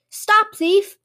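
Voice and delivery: very high-pitched cry after a thief; alarmed shout. A narrator's reading. Shop owner calls after the thief stealing his buns, alarmed shout. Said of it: "he shouted".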